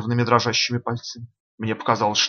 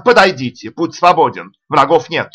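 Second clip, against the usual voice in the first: hollered summons, pitched up; shouting at full voice; 3 semitones higher, 7 dB louder than usual. A narrator's reading. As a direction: call out as loud as you can. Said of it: "заорал изо всей мочи".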